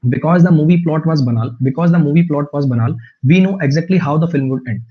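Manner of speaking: very slow, careful English sentence; slow example read. Shown as a demonstration. Teacher slowly reads the example sentence to students. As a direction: spell the sentence out slowly for learners. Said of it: "reading example sentence slowly".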